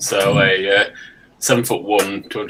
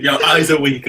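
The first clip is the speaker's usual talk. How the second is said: laughing; 4 semitones higher, 4 dB louder than usual. Real, not acted. Repeating the line, amused.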